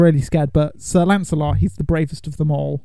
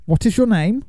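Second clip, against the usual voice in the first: bridge keeper; 5 semitones higher than usual. Pretend. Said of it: "Are you gonna ask me".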